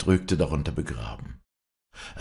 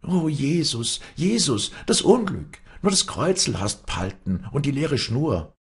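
put-on high, loud old-woman wailing; wailing lament; 10 semitones higher, 4 dB louder than usual. A narrator's reading. Old nurse bewails the omen as she leaves, wailing. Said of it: "So jammernd".

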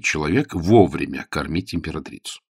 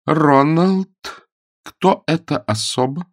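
indignant; 9 semitones higher, 3 dB louder, slower than usual. A narrator's reading. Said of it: "ответила вопросом на вопрос".

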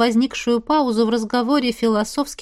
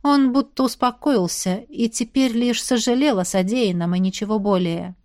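plain reading voice

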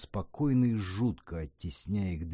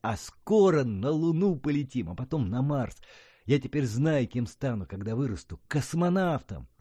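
higher, louder, eager dreaming; excited boy; 5 semitones higher, 4 dB louder than usual. A narrator's reading. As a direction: announce the dream proudly.

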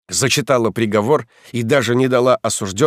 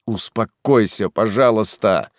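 calm and stern. Acted. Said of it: "произношу спокойно и строго".

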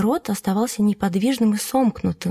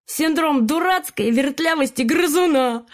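high, smug joking parrot; sly parrot voice; 6 semitones higher than usual. A narrator's reading. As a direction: crack the joke, pleased with yourself. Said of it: "заржал над собственной шуткой".

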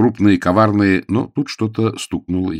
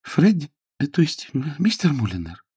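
put-on higher young lady's voice, faltering; hesitant Jane; 8 semitones higher than usual. Jane calls Freddie through the door, hesitantly. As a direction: correct yourself tentatively.

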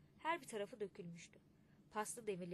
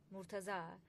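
loud, higher mocking yell across the square; mocking shout; 5 semitones higher, 10 dB louder than usual. A narrator's reading. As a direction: jeer at the kaymakam, shouting. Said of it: "diye bağırdı". (alaycı bağırış)

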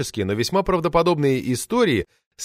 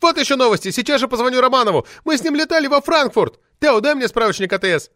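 put-on high, loud indignant shriek of an old party lady; shrill furious official lady yelling; roaring outrage; 11 semitones higher, 4 dB louder than usual. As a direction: howl it out like an enraged sabre-toothed tigress. Outraged lady threatens calls.

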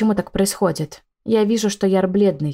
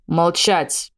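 barked order. A narrator's reading. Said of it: "рявкает Огнес".

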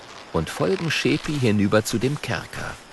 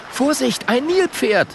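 higher, louder warning call; 4 dB louder than usual. Acted. Schabako warning friends of the hippo, loud high call. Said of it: "ruft Schabako".

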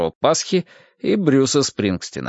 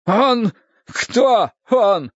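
high, startled voice; raised-pitch, anxious query; alarmed questioning; 10 semitones higher, much slower than usual. Acted. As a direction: demand to know who. Poisoned man demands who did it.

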